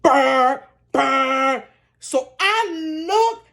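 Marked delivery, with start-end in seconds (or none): 0.0-1.6 engine noise. Retold or imitated. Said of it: "Mack truck".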